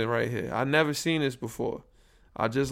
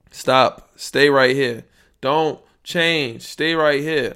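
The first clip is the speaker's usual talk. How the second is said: loud, slow commands shouted at the machine; yelling at the meter; 8 dB louder, much slower than usual. Real, not acted. Podcaster shouting at his recording levels, loud. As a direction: bark orders at the falling volume.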